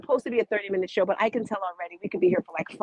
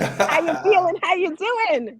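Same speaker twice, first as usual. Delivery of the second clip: excited; 9 semitones higher, 5 dB louder, slower than usual. Real, not acted. Host greets guest live.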